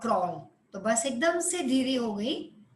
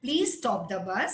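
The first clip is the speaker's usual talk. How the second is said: polite request; 5 semitones lower, slower than usual. Shown as a demonstration. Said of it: "देखो, दो में फर्क है".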